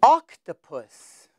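"Octopus" said slowly, syllable by syllable; slow model word. Shown as a demonstration. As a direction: stretch "Octopus" out for the child to copy. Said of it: "Can you say it?".

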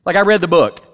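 mock knowing Jonah. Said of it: "Jonah doesn't go".

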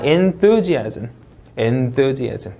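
enthusiasm, leaning slowly on THU; stressed syllable in enthusiasm. Shown as a demonstration. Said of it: "이쪽에 강세 넣었고요".

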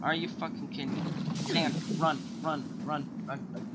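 panicked urging to run; being chased. Real, not acted. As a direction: gasp out run while fleeing.

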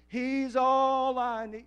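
high, loud and very slow proclamation; a full-voiced preacher's cry; preaching climax. Real, not acted. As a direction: stretch it out and ring it to the rafters. Sermon climax, preacher shouts.

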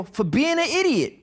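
high, loud comic retort; hammed-up exasperated comeback; mock scolding. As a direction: scold him like a sketch stooge. Acted retort after smack.

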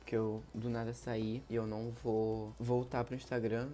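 acted sadness. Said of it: "vamos aqui incorporar no teatro".

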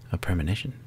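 hushed and soft; whispered premonition. Acted. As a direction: breathe it like a vision. Reading game line whispered.

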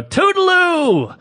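high, drawn-out singsong goodbye; mock cheery farewell. Man leaving the hotel room, hammed-up high singsong goodbye. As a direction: trill it slowly as you dash off.

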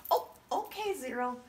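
high squeaky puppet talk. Pretend. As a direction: play the little hero puppet. Puppet voice of Zero the Hero.

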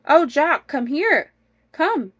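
high, loud call to her husband; storybook wife summoning someone; crying out. Acted. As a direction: call him over urgently. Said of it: "cried the good wife".

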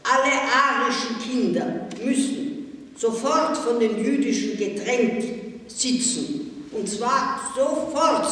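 laut und höher, herrisch befehlend; herrischer Befehl. A narrator's reading. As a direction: kommandiere die Klasse scharf herum. Nazi-Mädchen befiehlt der Klasse. (Nazi-Mädchen befiehlt der Klasse, laut und herrisch)

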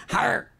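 high mock grunt of effort; imitated straining grunt. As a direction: grunt as if trying to rip a jacket. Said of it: "it's supposed to rip, and he goes".

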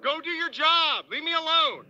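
slow, firm and fed up; calm turning angry. Real, not acted. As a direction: spell out each word, losing patience. Officer pushing him out.

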